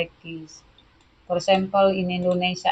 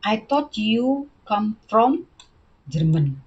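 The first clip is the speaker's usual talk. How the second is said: rising, puzzled disbelief; surprised; 3 semitones higher, 3 dB louder than usual. Shown as a demonstration. Teacher voicing A's surprised reply. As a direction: sound caught off guard. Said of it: "So they surprised".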